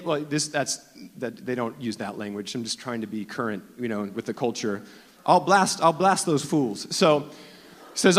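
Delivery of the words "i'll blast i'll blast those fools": loud cocky trash talk; boastful giant. Retold or imitated. Goliath threatening the Israelites, loud and cocky. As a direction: throw the threat out big.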